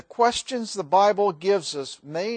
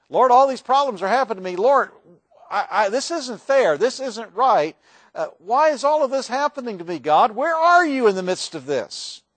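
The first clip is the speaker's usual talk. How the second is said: Job's lament; 5 semitones higher, 5 dB louder than usual. Acted. Job's anguished complaint to God.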